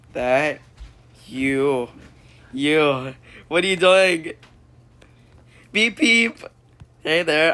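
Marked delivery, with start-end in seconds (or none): 5.7-7.5 phone voice. Acted. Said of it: "I'm a phone".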